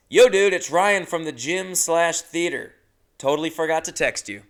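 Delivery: breezy text read; reading his text aloud. Retold or imitated. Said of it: "here's what I said".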